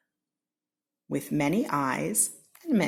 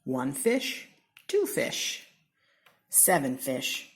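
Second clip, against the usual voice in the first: playful; 3 semitones lower, slower than usual. Acted. Counting fish playfully.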